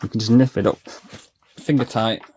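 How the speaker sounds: talking around a sachet held in the teeth; words muffled by something in the mouth; mouth full. Real, not acted. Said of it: "I had my grease sachet in my mouth".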